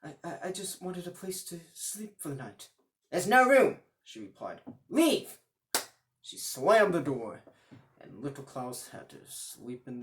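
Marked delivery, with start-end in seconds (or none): 0.0-2.7 nervous stammer. Acted. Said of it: "very nervous". 3.1-3.8 high, loud curt refusal; shrill old woman. Acted. 4.9-5.4 high, loud shrieked order; shrill old woman. Acted.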